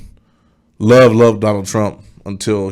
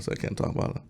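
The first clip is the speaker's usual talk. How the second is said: mock secretive whisper; 17 dB quieter than usual. Pretends he is being watched.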